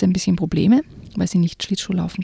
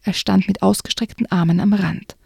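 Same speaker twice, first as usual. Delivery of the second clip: hushed, suspenseful reading aloud; story narration. A narrator's reading. Narrator reading a spooky book excerpt to the listener, suspenseful. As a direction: read it like a creepy tale, drawing them in.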